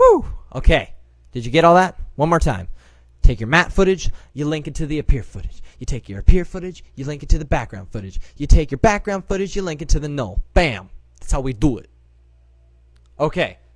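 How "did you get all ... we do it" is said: put-on rapid-fire Brooklyn accent. Tutorial host recapping the steps for viewers, in a Brooklyn accent. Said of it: "No more Brooklyn accents for me".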